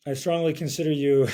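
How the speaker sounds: jet-lagged slurred speech; words slurring together from tiredness. Real, not acted. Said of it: "I'm slurring my words".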